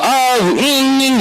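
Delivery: slow, hammed-up boo-hoo whimper; mock crying. Teacher shows the children how they cry when upset, in a mock whimper. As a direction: pretend to cry like a sulky child. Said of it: "울거나".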